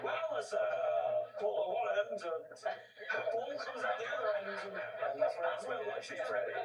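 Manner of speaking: hesitant, awkward lecturing voice; clueless sex-ed teacher. Retold or imitated. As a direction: explain it like a lost teacher. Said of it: "You sound like somebody who is teaching sex education but hasn't got a clue yourself".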